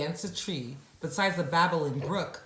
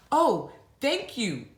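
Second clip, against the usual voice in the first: put-on little boy voice; 7 semitones higher, 5 dB louder than usual. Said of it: "said the little boy".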